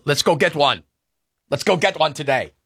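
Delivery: lightly imitated Jose Ramirez accent, barely off his own voice; a quick, badly done Jose Ramirez accent on a pep line. Host imitating Jose Ramirez rallying the team, weak accent. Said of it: "I know I just butchered that, uh, that accent".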